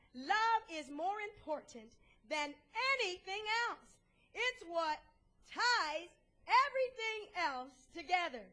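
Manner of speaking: slow, emphatic verse reading; deliberate pulpit reading with pauses; scripture reading. Acted. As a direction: read it out with weight on each phrase.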